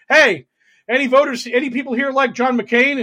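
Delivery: hammed-up politician asking the crowd; mock Kari Lake. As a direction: play a candidate sweetly polling the room. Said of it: "got in front of voters and was like".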